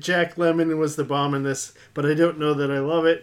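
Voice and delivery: hammed-up, uncertain Cockney accent; attempted Cockney. Host reading a British listener's comment, amateur Cockney accent. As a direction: put on an unpractised Cockney. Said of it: "I'll have to practice the Cockney".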